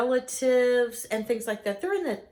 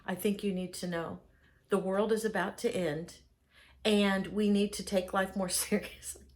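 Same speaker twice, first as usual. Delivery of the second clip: lower, softer grave warning; hushed doom-sayer; 6 semitones lower, 5 dB quieter than usual. Retold or imitated. Party guest pulling people aside to warn them, hushed and grave.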